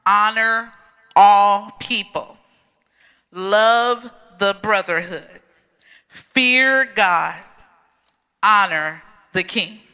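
each command punched, all and love stressed; scripture reread with emphasis. Shown as a demonstration. Pastor rereading the verse to the congregation, emphatic. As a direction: give every word of the verse weight. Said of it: "Let's read that one more time".

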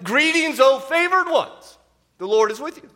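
high, loud, ringing proclamation of the greeting; angelic greeting. Shown as a demonstration. Pastor greeting the congregation as the angel did, ringing and loud. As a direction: announce it like a heavenly herald. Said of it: "I might even started this service with something like".

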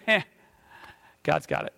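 whispered, easy and sure of itself; hushed reassurance. Retold or imitated. Angel to Mary, whispering calm reassurance. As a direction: breathe it like a secret promise. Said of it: "He goes".

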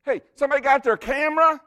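high, loud and fast, hamming up a show-off; mock excited brag. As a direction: call out like a showy fisherman. Mock braggart fisherman quote.

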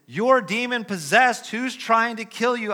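jeering crowd. Acted. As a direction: scoff at him as the mob. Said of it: "The crowd replies this".

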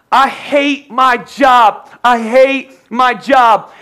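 very slow, drawn-out sulky moan; a hammed-up grumble about the job; mock whining. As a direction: moan it like a fed-up worker. Pastor mocks a complainer.

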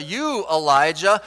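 "You" hit firmly and drawn out; slow, pointed address landing on "You"; stress on YOU. Shown as a demonstration. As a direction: lean on "You". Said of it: "emphasizing different words".

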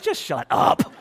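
half-whispered, a touch of playful annoyance; mock muttered retort. Pastor joking back at the cashier's compliment, muttered. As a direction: hiss it under your breath. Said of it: "I felt like I said".

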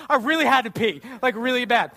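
sheepish confession. Retold or imitated. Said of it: "I was like".

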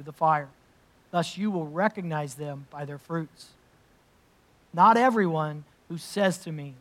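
measured, solemn reading of Scripture. Acted. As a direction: read it aloud to the congregation with weight. Reads the Sermon on the Mount.

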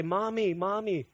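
hint of a little girl asking for mom; toddler daughter. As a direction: lightly imitate a toddler's plea. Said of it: "Manny would say in Korean".

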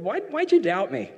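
high-pitched mock bafflement; acted incredulous question. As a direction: ask in high, puzzled disbelief. Acts Jesus questioning sinking Peter.

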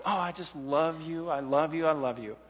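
lightly acted gushing devotion; mock sentimentality. Preacher showing empty professions of love, mock sentimental. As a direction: imitate someone going heavy on sentiment, mildly.

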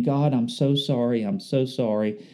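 soft, fading mock of a tearful prayer; mom breaking down. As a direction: quietly voice a mother near tears. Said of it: "she started breaking down".

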